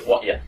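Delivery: "What ya?" clipped to two quick syllables "wʌt ə", no R at all. Shown as a demonstration. Teacher showing students the fastest casual form, "What ya?" with no R. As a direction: drop the R and squash "What ya?" into one beat. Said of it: "So delete the R, delete the T".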